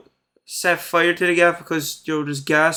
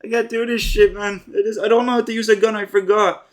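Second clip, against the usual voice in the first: mock panic; 3 semitones higher than usual. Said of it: "Karen starts acting like".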